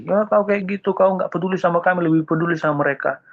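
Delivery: high, whiny angry complaint; angry Jonah. Acted. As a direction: complain bitterly at being ignored. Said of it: "Yunus marah lagi". (Yunus protes dengan nada tinggi merengek)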